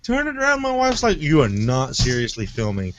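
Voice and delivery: high, fast, lively retelling; excited retelling. Retold or imitated. Retelling filming the camera intro.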